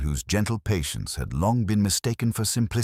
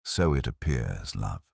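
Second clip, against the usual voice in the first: soft and low, patient; calm, unhurried reassurance; a quiet, patient inspector's reply; gentle; 6 semitones lower, 4 dB quieter than usual. A narrator's reading. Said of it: "Pirbright's tone remained gentle".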